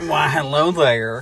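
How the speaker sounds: slow, confident mock Transylvanian greeting; lightly hammed Transylvanian count; Transylvanian accent. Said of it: "a deep and confident Transylvanian accent".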